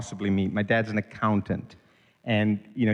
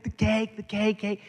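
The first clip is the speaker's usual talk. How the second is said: put-on much higher, a child's whimper; imitating sobbing child; 9 semitones higher than usual. Son answers his frightened mother, whimpering about the cake. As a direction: bleat it out like a distraught little boy.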